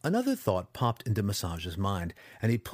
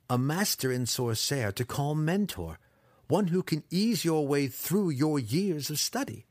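higher-pitched, wheedling apprentice voice; scheming young apprentice; 4 semitones higher than usual. Acted. Apprentice offers himself a mentor, scheming. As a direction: pitch the bargain as a wily young student.

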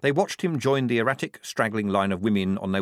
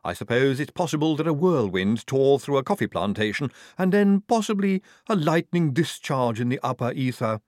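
higher, musing helper voice; Igor character; 4 semitones higher, 3 dB louder than usual. Acted. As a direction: speculate aloud in a raised character voice.

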